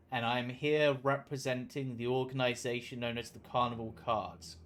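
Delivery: formal, stately royal greeting; regal voice. Acted. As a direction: address them like a king. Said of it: "Putting on his most regal voice".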